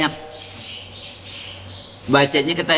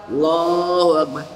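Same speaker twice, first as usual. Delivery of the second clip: a woman's takbir. Shown as a demonstration. Preacher shows the women's takbir, slow and drawn out. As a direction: stretch out Allahu Akbar gently, like a woman at prayer. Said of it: "Kalau perempuan".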